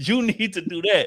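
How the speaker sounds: high, put-on condescending, lecturing tone. Showing how a built-up complaint comes out to a partner: condescending. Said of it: "in a condescending way".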